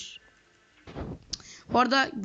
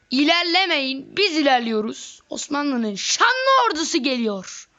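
rallying cry; 3 semitones higher, slower than usual. Real, not acted. Rallying his army, slow.

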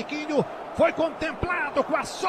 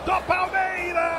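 goal shout; 5 semitones higher than usual. Real, not acted. Goal cry after long held gol.

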